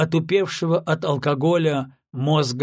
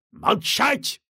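sharp, higher bark; barked command; 8 semitones higher than usual. A narrator's reading. General barking the captain into silence. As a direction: cut him off with a bark. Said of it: "гаркнул Самарин".

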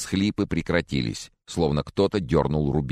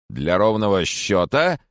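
brisk; 5 semitones higher, 4 dB louder, slower than usual. Acted. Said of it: "бодро спросил".

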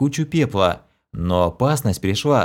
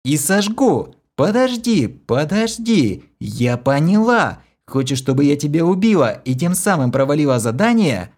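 hissing fury; 6 semitones higher than usual. A narrator's reading. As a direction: spit it out in sudden suspicion. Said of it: "прошипела Кира".

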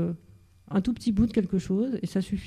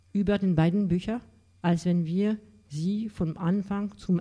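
slow, deliberate German literary reading; reading aloud in German. Shown as a demonstration. Lecturer sounding out Bernhard's language for the audience, measured German reading. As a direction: let each German phrase sound out slowly, with pauses between. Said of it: "pour vous lire juste un tout petit passage, faire sonner la langue de Thomas Bernhard".

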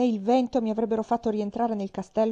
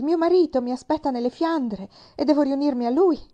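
defiant; 6 semitones higher, 7 dB louder than usual. Acted. Queen defiant to the bishop.

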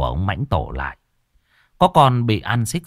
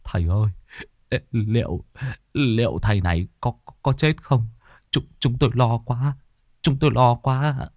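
anxious trembling; 3 semitones higher than usual. Acted. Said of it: "Liền run rẩy hỏi Môn Phọt".

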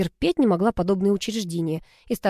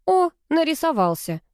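бодро и высоко, с радостью; обрадовалась встрече с собакой; радостно; 9 semitones higher than usual. A narrator's reading. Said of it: "обрадовалась я". (радостно, с подъёмом)

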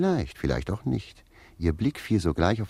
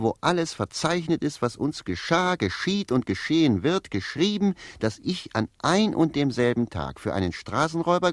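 higher, complaining wail; bitter lament; 10 semitones higher than usual. Acted. Jakob complaining bitterly about his fate, higher voice. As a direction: rail against fate. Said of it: "beklagte er sich bitterlich und rief".

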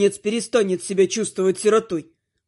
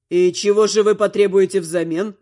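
snide. Acted. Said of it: "ехидно интересуется он".

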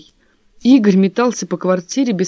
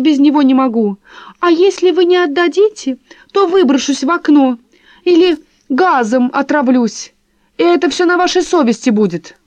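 mocking the mistress; 7 semitones higher, 5 dB louder than usual. Wife mocking husband's lover's pleading, high simpering voice. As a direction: mimic the lover's simpering plea. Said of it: "говорит".

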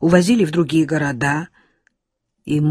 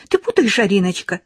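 high, sugary mother coaxing; tender singsong; 8 semitones higher, 4 dB louder than usual. A narrator's reading. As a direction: coo it sweetly in a lilting high voice. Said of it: "нежно пропела мать".

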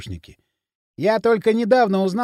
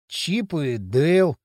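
slow, sighed-out answer; sighing; 2 semitones lower, much slower than usual. Acted. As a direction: let it out on a tired sigh, slowly. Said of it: "вздохнул Пельмень".

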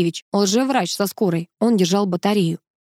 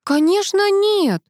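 high, slow protest; 12 semitones higher, slower than usual. A narrator's reading. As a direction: object in a much higher voice. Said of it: "возразила я".

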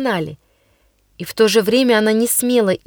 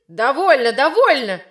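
teacher cutting in; 3 semitones higher than usual. Acted. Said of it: "неистово замахал руками учитель".

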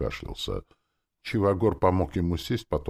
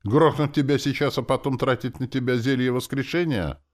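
higher, louder exasperated question; starting to seethe; 9 semitones higher, 5 dB louder than usual. A narrator's reading. Sorcerer threatening stubborn soldier, starting to seethe. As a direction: push it out with mounting impatience. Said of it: "начал я закипать".

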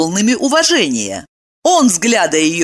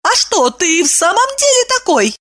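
suddenly agitated; 13 semitones higher than usual. A narrator's reading. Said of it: "вдруг взволновалась она".

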